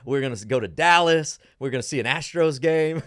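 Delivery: eager tourist. Retold or imitated. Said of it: "Give me your best Alaskan accent".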